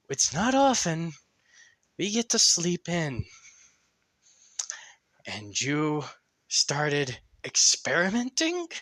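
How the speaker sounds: talking a sister out of shooting; sheepish placating. Acted.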